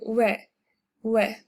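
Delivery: "We" said like "weh", as in "wet" without the t; two separate, short "weh" syllables for "We"; pronunciation demonstration. Shown as a demonstration. Teacher confirming how you pronounce it, demonstrated pronunciation. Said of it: "that's how you pronounce it".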